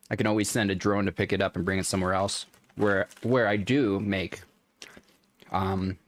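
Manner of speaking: talking while crunching; words between bites of chips. Real, not acted. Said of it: "Sorry for all the crunching".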